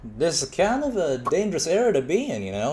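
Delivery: Southern accent impression; swooping, sing-song Southern accent. Shown as a demonstration. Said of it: "how Southern would".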